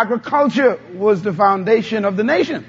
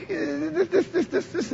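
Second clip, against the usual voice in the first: laughing; 6 semitones higher, 10 dB quieter than usual. Acted. God's calm reassurance, laughing.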